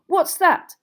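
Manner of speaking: loud, high demand; angry yell back. A narrator's reading. Ron challenges Hermione mid-row, angry yell. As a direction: bellow the challenge back at them. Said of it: "Ron yelled back".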